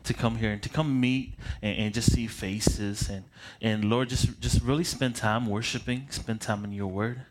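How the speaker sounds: earnest spoken prayer, unhurried with pauses; a pastor's opening prayer for the congregation. Acted. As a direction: pray over the room before preaching. Opening prayer before the sermon.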